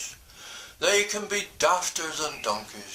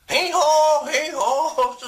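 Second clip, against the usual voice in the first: loud, high hee-haw bray; donkey bray; 11 semitones higher, 6 dB louder, slower than usual. Acted. Denny the donkey braying his praise song loudly. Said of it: "said Denny".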